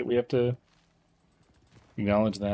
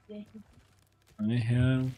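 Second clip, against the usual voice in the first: slow, halting hiccup-broken words; drawn-out hiccuping speech; hiccupy; 4 semitones higher, slower than usual. Real, not acted. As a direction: stumble through with the hiccups. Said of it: "We have the hiccups".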